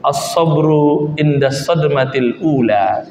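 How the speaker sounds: slow, low solemn Arabic recitation; lightly voiced prophet, unhurried and grave; reciting the hadith slowly; solemn quote of the Prophet. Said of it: "Kata Rasul".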